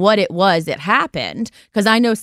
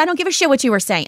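retold irate retort; 6 semitones higher, much faster than usual.

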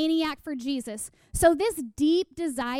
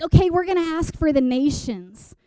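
louder, emphatic announcement; rallying call; 6 dB louder than usual. Retold or imitated. Mission leaders tell the team to pray, loud rallying call. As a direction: project it like a leader to a group.

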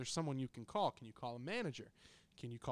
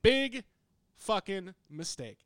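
much higher and much louder, then drawn out; louder and slower; 5 semitones higher, 11 dB louder, slower than usual. Real, not acted. Telling the co-host his error again, even louder and slower. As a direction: drag the last words out for weight. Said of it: "Big mistake".

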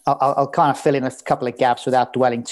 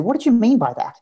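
much higher, quizzical mock voice of the guests; incredulous guests; 10 semitones higher than usual. Guests after the speech asking what he meant, high incredulous mimicry. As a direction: mimic puzzled wedding guests pitching up high.

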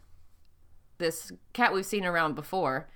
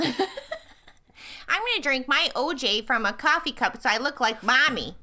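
put-on child voice; 4 semitones higher than usual. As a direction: talk like a small child. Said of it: "I turn into a six-year-old".

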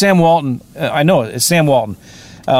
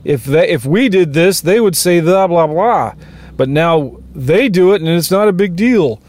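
imitating complainers in a higher, whiny mock voice; mock whining; 3 semitones higher than usual. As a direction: whine it like a sulky pundit, half-joking. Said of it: "Whining about".

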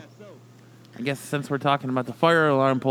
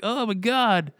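hammed-up flop wail; 9 semitones higher, slower than usual. Imagined flop theatrics.

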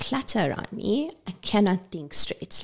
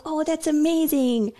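mock excitement; 8 semitones higher than usual. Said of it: "And I was like".

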